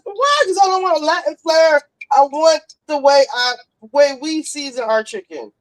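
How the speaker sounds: high-pitched, defensive "why"; retold protest. Answering sister's racism accusation, mock-indignant protest. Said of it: "I, I said".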